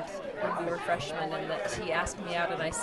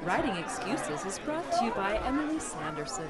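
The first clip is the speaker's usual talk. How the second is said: sultry perfume ad. Pretend. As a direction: purr it like a perfume commercial. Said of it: "Longtime fans will recognize that sultry voice".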